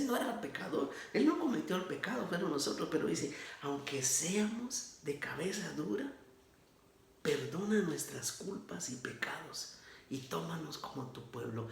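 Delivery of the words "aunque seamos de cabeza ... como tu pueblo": mildly imploring, softening toward the end; humble plea. Retold or imitated. Moses asking God to pardon his people, humbly. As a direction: ask humbly, letting the voice sink softly. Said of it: "Mire qué humildad la de Moisés".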